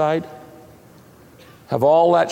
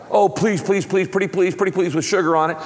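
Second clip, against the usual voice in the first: higher, pleading please please pretty please, hammed-up; mock begging; 4 semitones higher, faster than usual. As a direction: whine it like a kid begging for candy. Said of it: "You don't beg God".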